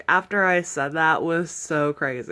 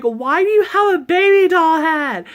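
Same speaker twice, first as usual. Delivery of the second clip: put-on high, loud child's voice; kid voice; 7 semitones higher, 6 dB louder than usual. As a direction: play the curious kids, pitched up. Kids question her about doll head.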